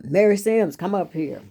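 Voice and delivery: a sharp call of a name by a stern teacher. Retold or imitated. Teacher summoning the girl to the front, loud call. Mean teacher calls her up.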